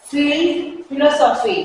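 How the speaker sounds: फील्ड and फिलोसॉफी begun on f; careful teeth-on-lip f in फील्ड, फिलोसॉफी; English f sound. Shown as a demonstration. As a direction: model f, not ph, in फील्ड, फिलोसॉफी. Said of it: "फा होगा".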